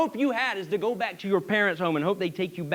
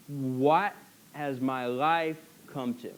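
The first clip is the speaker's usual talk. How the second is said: despairing; 6 semitones lower, 6 dB quieter, much slower than usual. Acted. Naomi despairing after losing family.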